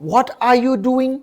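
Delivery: very slow, spaced-out model sentence; slow teaching model. Shown as a demonstration. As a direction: say each word slowly for learners. Teacher models the English question. (शिकवण्यासाठी अगदी सावकाश)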